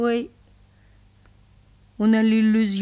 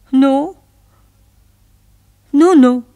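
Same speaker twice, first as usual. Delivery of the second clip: louder, higher insistent no; emphatic no; 6 semitones higher, 12 dB louder, slower than usual. Acted. Woman insisting to her lover, loud no. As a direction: cut him off firmly.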